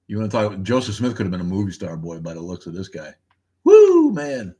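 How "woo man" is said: high, loud "woo"; sudden loud high exclamation; impressed whoop. Real, not acted. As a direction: whoop in admiration. Reacting to a portrait.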